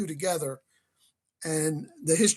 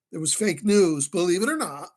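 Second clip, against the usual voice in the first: dry mock surprise, louder on news; sarcastic; 4 dB louder than usual. Real, not acted. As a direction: say it with a knowing, sarcastic edge. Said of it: "And I'm being sarcastic".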